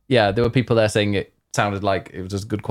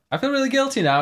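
mock guilty self; 3 dB louder than usual. Retelling radio chat, own voice.

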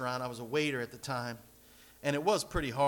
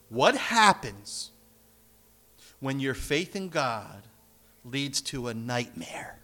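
slow emphatic preaching; 3 semitones lower, 5 dB louder, slower than usual. Acted.

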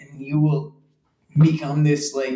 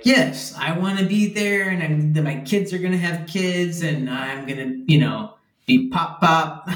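lightly voiced eager future grandpa, higher; stereotypical dad-to-be; 4 semitones higher than usual. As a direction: play the cheesy family man, pitched up. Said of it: "very stereotypical".

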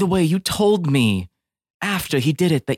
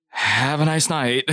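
dismissive dad; slower than usual. Retold or imitated. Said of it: "rolls his eyes and just puts his hand up like".

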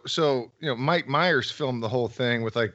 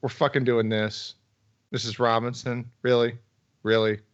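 exasperated disbelief. Retold or imitated. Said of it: "I'm just like".

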